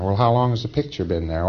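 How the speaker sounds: lightly voiced auditor asking the wrong thing; wrong question, plain ask. Shown as a demonstration. Lecturer demos a wrong auditor question, lightly voiced. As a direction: asks how long the picture has been there, evenly. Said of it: "That's wrong".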